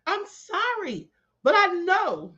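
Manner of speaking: high-pitched helpless laughter; cracking up, can't stop laughing; laughing hard. Real, not acted. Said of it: "Queen got me over here done and crying, laughing".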